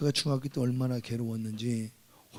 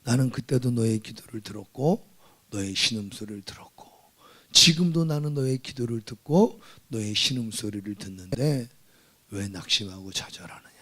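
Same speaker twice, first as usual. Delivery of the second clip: voice of God; 3 semitones lower than usual. Retold or imitated. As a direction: whisper God's words tenderly. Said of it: "내 마음에 감동이 드는 건".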